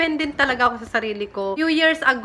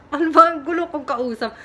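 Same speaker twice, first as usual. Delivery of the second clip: louder and higher, exasperated at herself; flustered self-scolding; 4 semitones higher, 3 dB louder than usual. Real, not acted. Vlogger catches herself rambling to viewers, flustered exclamation. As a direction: scold yourself for rambling, half laughing.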